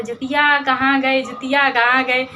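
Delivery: put-on a grandmother hollering for the lost child; grandma calling out. Grandmother searching the fields at night for the kids, loud calling. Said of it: "चिल्ला रही हैं दादी हमारी".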